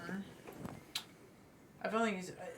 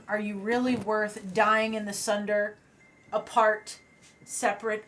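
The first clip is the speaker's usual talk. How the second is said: mildly raised, earnest rebuke to warring giants; projected speech. Acted. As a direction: lightly project an impassioned plea over the fight. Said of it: "I'll just naturally project the best way I can".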